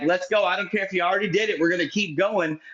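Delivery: lightly put-on auctioneer, rushed in the middle; a hint of auctioneer hustle, pushing on. Shown as a demonstration. Host threatens the audience with auctioneering, light auctioneer patter. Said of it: "like, my auctioneer voice going".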